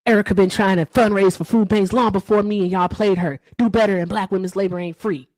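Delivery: lightly voiced Hector, trying for conviction; Hector impersonation. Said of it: "my Hector impersonation".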